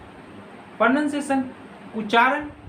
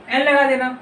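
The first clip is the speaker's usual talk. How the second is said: एन लगा देना repeated louder and firmer; louder reminder; 5 dB louder than usual. Shown as a demonstration. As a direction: drive home एन लगा देना to the class. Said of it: "बोले थे ना".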